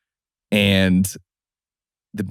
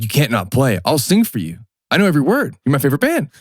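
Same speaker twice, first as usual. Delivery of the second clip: put-on higher, pleading eager teen voice; eager fan plea; 5 semitones higher than usual. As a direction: beg the band like a starstruck kid. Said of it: "I'm like".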